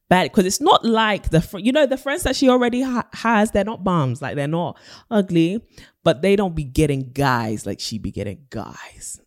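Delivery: put-on high, slangy American accent. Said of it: "you know I love my good American accent".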